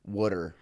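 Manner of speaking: "Water" echoed as "wooder"; Philly pronunciation. Retold or imitated. Guest trying out Philly "Water" as "wooder", tentative. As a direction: repeat "Water" as "wood-er". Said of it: "what we call water".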